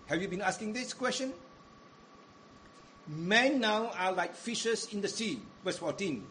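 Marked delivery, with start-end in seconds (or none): 3.1-5.4 scripture reading. Shown as a demonstration. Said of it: "Perhaps you may like to read".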